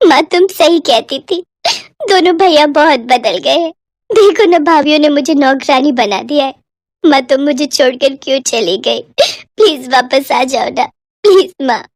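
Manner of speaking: lightly voiced girl pleading, mildly tearful; tearful plea. Pallavi pleads with dead mother. (माँ से विनती करती लड़की, हल्की उदासी)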